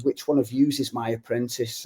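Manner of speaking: lightly imitated Scouse voice; Scouse accent. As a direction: quote the big footballer with a hint of Scouse. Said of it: "in his broad Scouse accent".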